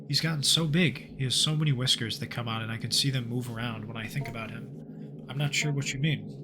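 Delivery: measured narrator reading the game's journal; story narration. Acted. Gamer narrating the journal to viewers, steady storyteller voice. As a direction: read it like an eerie case file. Reads game story text aloud.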